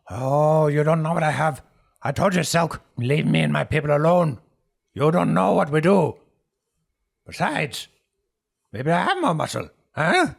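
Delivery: high, loud, defiant outburst; shaking with anger. Acted. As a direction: rage back at the bully as Herb. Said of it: "starts shaking out of anger".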